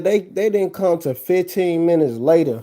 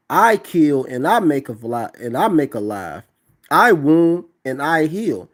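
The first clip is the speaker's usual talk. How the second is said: solemn scripture reading. Acted. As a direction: proclaim the verse like a preacher. Reads Deuteronomy scripture aloud.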